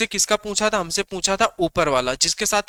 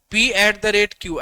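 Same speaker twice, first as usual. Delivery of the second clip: very slow repeat; much slower than usual. Shown as a demonstration. Teacher repeating notation for students, very slow and deliberate. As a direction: spell the notation out very slowly so it sinks in. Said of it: "repeats notation even slower".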